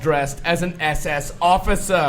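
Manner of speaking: crisp formal British news read; BBC newsreader voice. Pretend. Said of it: "B B C newsreader voice".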